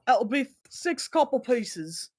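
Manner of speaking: lightly voiced tavern keeper; slow, businesslike bartender asking payment. Bartender charging two customers for their ale, lightly voiced bartender. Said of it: "the bartender looks at you".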